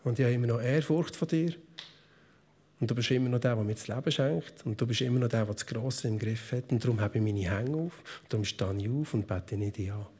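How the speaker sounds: hushed, intimate plea to God; soft and low, almost praying under the breath; quiet prayer to God. Retold or imitated. Worshipper quietly telling God he is still God. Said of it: "schreie ich manchmal zu Gott und sage".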